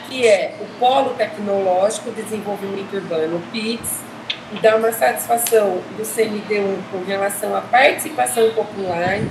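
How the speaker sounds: muffled, speaking behind a mask; through a face mask. Real, not acted. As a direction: talk through a mask with a cold. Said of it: "eu estou de máscara, porque eu estou gripada".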